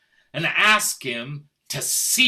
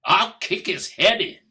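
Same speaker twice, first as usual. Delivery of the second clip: threat; 2 semitones higher, 6 dB louder than usual. Acted. Husband threatens lover.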